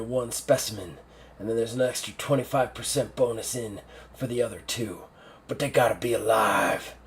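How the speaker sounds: lightly voiced commander giving firm orders; a hint of hard-bitten general laying down terms; stoic old general. General briefs his assistant.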